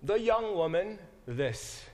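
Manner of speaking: slow, word by word literal reading. Shown as a demonstration. Preacher reading Boaz's question literally, slow and deliberate. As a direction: read each word slowly, like a literal gloss. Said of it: "there's an interesting phrase there".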